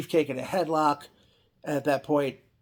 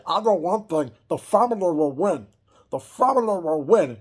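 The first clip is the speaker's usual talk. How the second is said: lightly voiced Andre vow; 4 semitones higher, 6 dB louder than usual.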